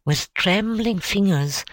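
usual speaking voice

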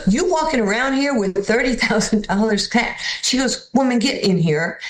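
high astonished neighbour voice; shocked lady. Retold or imitated. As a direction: gasp at the cash, high.

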